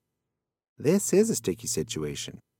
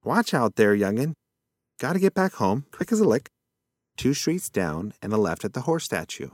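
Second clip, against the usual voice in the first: a hint of a rushed old possum; bustling past, no time to chat; hurried old possum; 4 semitones higher than usual. Possum barges past in hurry.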